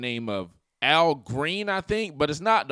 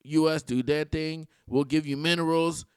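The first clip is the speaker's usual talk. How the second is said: mock Zelensky accent. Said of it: "He talks like this".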